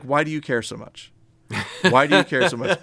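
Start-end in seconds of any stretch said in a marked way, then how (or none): 1.9-2.8 laughing as she asks the same question again; laughing repeat. Retold or imitated. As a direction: say it again while cracking up. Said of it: "Jennifer's like".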